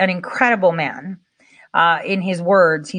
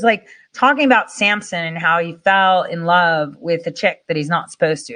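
usual speaking voice

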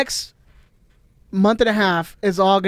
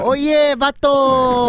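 stoner; 7 semitones higher, 5 dB louder, much slower than usual. Acted. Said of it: "that's more closely of what it sounded like".

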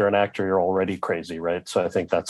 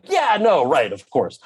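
high "yeah" easing down to usual pitch; over-agreeable; 5 semitones higher, slower than usual. Retold or imitated. Actor giving in to the producers' request, over-agreeable. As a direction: play along too readily, retold. Retells his compliant answer.

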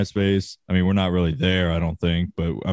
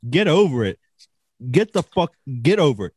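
exasperated rant; 6 semitones higher than usual. Real, not acted. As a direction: tell them off, fed up. Ranting at offended people.

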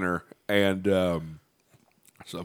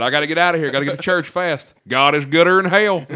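mock redneck preacher; 6 semitones higher, 7 dB louder than usual. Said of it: "Talk about".

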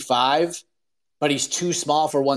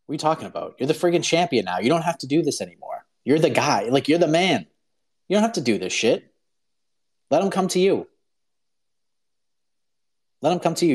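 pleading team; 4 semitones higher, faster than usual. Retold or imitated. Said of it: "they're like".

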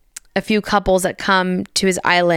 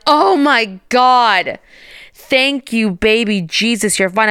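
relieved outburst; 3 semitones higher, slower than usual. Retold or imitated. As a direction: let the relief burst out, then ease. Relief on finding mom safe.

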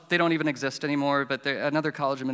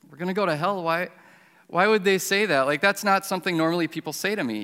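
incredulous reaction; 4 semitones higher, 4 dB louder than usual. Retold or imitated. Reacting to being told hell.

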